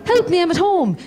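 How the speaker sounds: high, pleading cry for help; a hint of a needy patient; mock plea. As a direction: play a helpless old client calling out.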